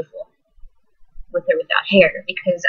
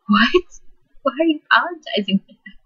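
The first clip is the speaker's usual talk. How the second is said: disbelieving; 7 semitones higher than usual. Retold or imitated. Daughter shocked at apology.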